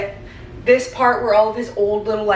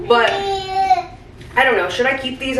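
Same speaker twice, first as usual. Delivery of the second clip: holding back tears as the memories hit; near tears; 4 semitones higher, slower than usual. Real, not acted. Sorting her newborn's bottles, a mom near tears. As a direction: voice rising high and slow on the verge of crying.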